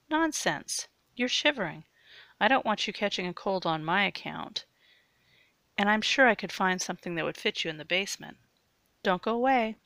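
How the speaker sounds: bright, quick and eager; eager insisting. Acted. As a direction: brush off his refusal cheerfully. Eager girl insisting on helping.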